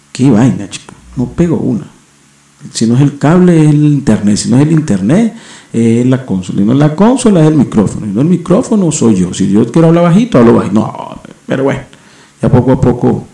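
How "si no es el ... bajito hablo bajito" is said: higher, rising-and-falling list of gripes; real exasperation, pitched up; exasperated rant. Real, not acted. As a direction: vent as one fault leads to the next. Venting about technical troubles piling up.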